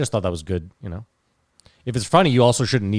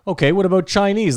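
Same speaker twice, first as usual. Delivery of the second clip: mock asking; 9 semitones higher, 4 dB louder than usual. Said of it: "Then you were like".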